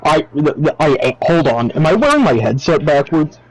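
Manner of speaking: muffled underwater mic sound; talking through a submerged-sounding mic. Real, not acted. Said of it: "why do you sound like you're underwater".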